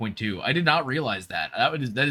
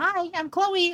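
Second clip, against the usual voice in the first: put-on very high girly character voice. Showing the voice they used for Chloe, Chloe voice, higher-pitched. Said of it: "a little bit more high pitch".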